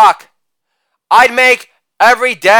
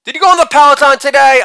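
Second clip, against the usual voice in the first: put-on higher, fast little boy voice; young son asking, higher and quick; son's voice; 5 semitones higher, much faster than usual. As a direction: rattle it off like an eager kid. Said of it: "Son asked".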